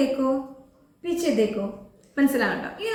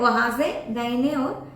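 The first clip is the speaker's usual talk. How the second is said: slow teaching demo; much slower than usual. Shown as a demonstration. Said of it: "correct ആയിട്ട്".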